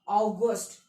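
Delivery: अगस्त misread as "ow-GOST", with an O; common misreading. Shown as a demonstration. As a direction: say अगस्त with "au" then a short "gost". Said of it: "बहुत लोग क्या पढ़ लेंगे".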